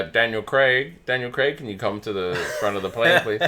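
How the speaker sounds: page him like a flight attendant; intercom announcement. Retold or imitated. Flight crew paging a passenger, mock intercom voice. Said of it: "over the intercom goes like".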